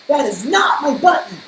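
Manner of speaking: loud high wail of protest. Acted. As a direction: wail it out, fed up. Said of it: "wailed Toad".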